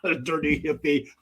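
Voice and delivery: laughing through the words. Real, not acted. Scrooge repeating Alexa's nickname for his nephew, laughing. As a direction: crack up while repeating the phrase.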